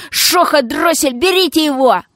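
raging hysterical yell; hysterical hoarse yell. Acted. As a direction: howl it, voice cracking. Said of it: "истерично заблажил".

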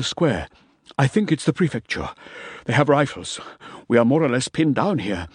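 lightly voiced winded soldier; breathless soldier report. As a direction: report it urgent and pinned down.

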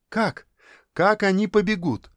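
high, eager and keen; eager girl's question. A narrator's reading. Zhenechka eagerly asks the guests how they'll run, eager. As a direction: ask it like a thrilled little girl. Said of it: "азартно спросила Женечка".

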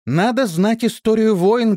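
high, loud, indignant scolding; woman scolding the fighters, high and loud; angry rebuke. A narrator's reading. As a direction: scold the brawling men. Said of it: "гневно произнесла Исидора".

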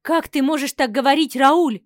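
loud, stunned disbelief; appalled, push back at him; wife stunned by her husband's cruelty; shocked reproach. Acted. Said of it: "ответила я поражённо".

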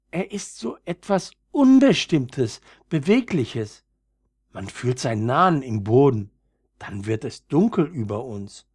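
lightly voiced frightened little flower; timid young violet, uneasy. Younger violet describes the human. (leicht ängstliches junges Veilchen, erst hoch)

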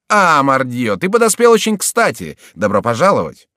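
loud, high, exclaiming greeting; hearty shouted welcome. A narrator's reading. Beset man to his arriving friend, exclaiming loudly. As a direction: hail a friend who came just in time. Hailing a friend amid a fight.

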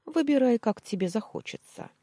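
a loud, high, mocking offer; mocking high lilt. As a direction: tease her with a sing-song high offer. Captor mockingly offers her choice.

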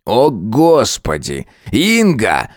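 slow, drawn-out groan of despair; a touch of a wail; mild wail. A narrator's reading. Husband exasperated with his wife, a mild wail. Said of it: "взвыл Глеб Владимирович".

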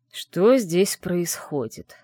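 cold, very slow demand; icy voice. Acted. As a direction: freeze the room with each word. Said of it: "буквально ледяной голос Арона".

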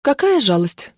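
understated derisive tone; scornful snort. A narrator's reading. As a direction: toss it off with mild scorn. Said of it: "фыркнула я".

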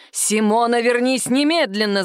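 mild mock shout after her; shouting boss. Boss calls Sima back down the corridor, shouting. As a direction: call her back sharply. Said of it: "закричал шеф".

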